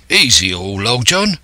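sailor calling for calm; cried out. Acted. Israel calming Silver down, crying out. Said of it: "cried Israel".

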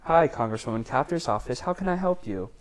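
a touch of polite office phone voice; receptionist greeting. Retold or imitated. Intern answers the congresswoman's office phone, polite receptionist greeting.

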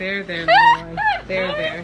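very high sing-song there, there; mock comforting. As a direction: soothe a child, hammed up high.

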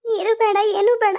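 upset, sobbing brush-off; tearful refusal. Acted. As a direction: refuse through tears. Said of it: "ಕಣ್ಣೀರ್ ಒರ್ಸ್ಕೊ ಮೊದ್ಲು". (ಅಳುತ್ತಾ ನಿರಾಕರಣೆ)

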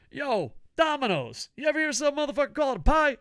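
high, loud mock Jersey shout; Jersey accent. Storyteller mimics Southern guys quizzing Domino's, loud accidental Jersey accent. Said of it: "these Southern guys are talking with a Jersey accent".

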